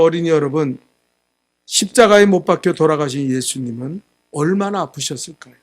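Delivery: put-on pastor addressing children.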